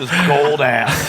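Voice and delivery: joking, stretched-out laugh line. Real, not acted. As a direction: drag it out through laughter. Joking banter, drawn out.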